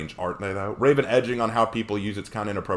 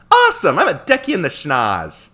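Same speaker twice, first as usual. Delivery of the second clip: loud, higher cartoon hero; abridged Goku; 6 semitones higher, 6 dB louder than usual. Hero telling Frieza he will fight, high loud Goku voice. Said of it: "try to do the abridged Goku".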